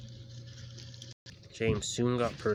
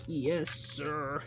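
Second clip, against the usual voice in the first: nervous; 7 semitones higher than usual. A narrator's reading.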